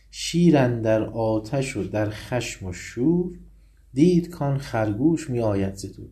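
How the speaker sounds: slow, measured verse reading; reciting Rumi; poem recitation. Acted. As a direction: chant the couplet with weight.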